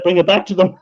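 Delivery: laughing through the punchline; can't hold back a laugh at the end. Real, not acted.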